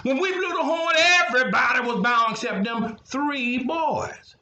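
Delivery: snitching to the king, keen and shrill-free; tattling officials. A narrator's reading.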